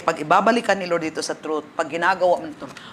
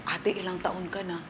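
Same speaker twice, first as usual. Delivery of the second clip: much softer test question; softly asked; 12 dB quieter than usual. Retold or imitated. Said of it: "hinaan ko". (mahinang tanong)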